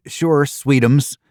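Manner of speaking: playing along with a sugary pet name; mock sweet. Narrator answering in mock sweetness.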